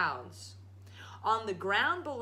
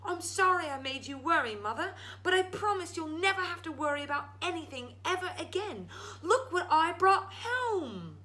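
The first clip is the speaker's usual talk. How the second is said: voiced young Jack; 10 semitones higher, 3 dB louder than usual. Jack consoling his mother.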